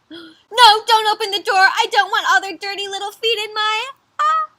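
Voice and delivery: high, loud alarmed pleading; panicked protest. Acted. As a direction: beg them in acted alarm to stop. Bear panics about opening door.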